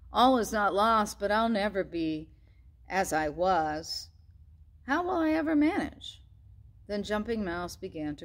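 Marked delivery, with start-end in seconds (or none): 0.1-6.2 sad. Acted. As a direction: sink into sadness. Mouse despairing before crying.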